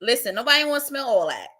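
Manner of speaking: a light Brooklyn accent on the line. Shown as a demonstration. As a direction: say it the way a Brooklyn girl would. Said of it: "how'd she say? 'Cause I don't have the accent down".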